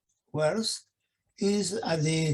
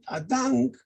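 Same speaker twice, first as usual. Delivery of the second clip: "a Dank" said on a higher tone; "Dank" raised high as a demonstration; 5 semitones higher than usual. Shown as a demonstration. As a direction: lift "Dank" up. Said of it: "auf einen höheren Ton".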